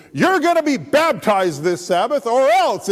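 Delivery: loud, high stomping demand; mock angry ultimatum. Pastor to Mark after their argument, hammed-up anger. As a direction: act out a pastor losing his temper. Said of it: "He got mad".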